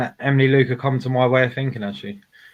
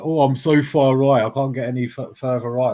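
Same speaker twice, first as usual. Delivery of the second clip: mocking Ralph. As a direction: lightly ham up a pompous boast. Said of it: "That come from Ralph".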